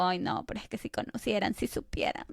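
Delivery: hushed, breathy aside to herself; half-whispered sigh of longing; a soft, secret wish. Retold or imitated. Own wistful thought, quoted.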